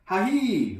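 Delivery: hammed-up little laugh; light laugh. Shopkeeper laughs at the boy's answer, lightly. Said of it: "laughed Sai Fang".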